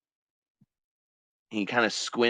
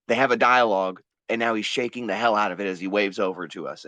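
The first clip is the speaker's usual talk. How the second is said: ordinary talk, nothing marked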